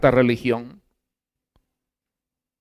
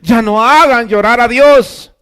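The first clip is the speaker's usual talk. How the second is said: mocking quote; 9 semitones higher, 10 dB louder, slower than usual. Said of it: "¿Cuántos han oído eso?".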